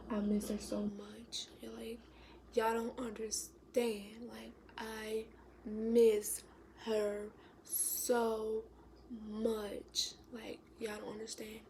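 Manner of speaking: slow, choked-up near-whisper; barely holding the tears back; close to tears. Real, not acted. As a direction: grief breaking through hushed words. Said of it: "sorry if I start crying".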